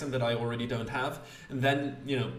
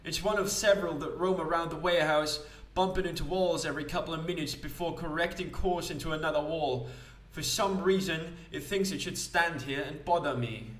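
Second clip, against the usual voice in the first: mildly put-upon character explaining a nuisance; lightly voiced grumbling colleague; 4 semitones higher than usual. Character grumbles about the automaton.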